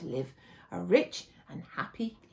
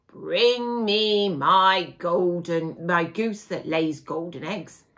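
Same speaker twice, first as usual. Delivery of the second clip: slow, drawn-out giant demand; giant's command; 3 semitones lower, 6 dB louder, slower than usual. Acted. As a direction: stretch each word like a lumbering giant. Giant orders the woman.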